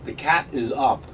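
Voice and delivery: deadpan Walken cadence; Christopher Walken impression. Continues Walken bit.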